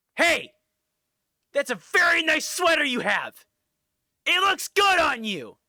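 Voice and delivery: very loud, very high, shrill, backhanded insulting tone. Retelling a clip of John Cena complimenting people: imitating John Cena's insulting tone. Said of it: "he compliments people, but in an insulting tone".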